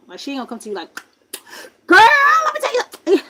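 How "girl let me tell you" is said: high-pitched, in-your-face gossip; loud, intrusive. Acted. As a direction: burst in loudly like an overbearing friend. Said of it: "she's not all out ghetto".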